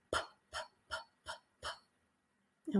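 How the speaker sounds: unvoiced puff p sounds; just air through closed lips for p; voiceless p. Shown as a demonstration. Teacher demonstrating a voiceless P for students. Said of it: "try that yourself a couple of times".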